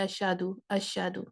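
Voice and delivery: اشہدو rushed with no ہ; careless reading. Shown as a demonstration. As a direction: say اشہدو as people do unthinkingly. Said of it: "اگر اس پہ توجہ نہ دیں". (بے توجہی والا اشہدو)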